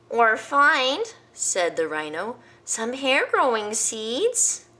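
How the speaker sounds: high, slow rhino voice; rhino's idea. Acted. Rhino proposing hair seeds, high and slow. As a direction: offer it eagerly.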